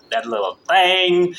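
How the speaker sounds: slow Southern drawl; Southern accent. Shown as a demonstration. Recalling coin laundry to listeners, in a Southern accent. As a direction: lean lightly into a Southern accent. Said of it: "I love my Southern accent".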